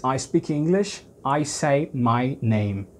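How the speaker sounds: slow and soft, each word clear; teacher reading English slowly and quietly; slow English example. Shown as a demonstration. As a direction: model the English sentence for a learner. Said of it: "E em inglês".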